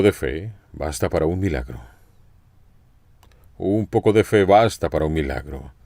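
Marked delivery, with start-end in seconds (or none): 3.6-5.7 emphatic restatement. Shown as a demonstration. Preacher repeating the principle to the congregation, emphatically. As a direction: drive the principle home. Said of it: "Aquí está el principio".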